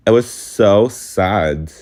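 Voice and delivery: real tears, slow and strained; crying while telling it, words dragged out. Real, not acted. Vlogger crying over the sad trip, slow and tearful. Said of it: "this is me crying now".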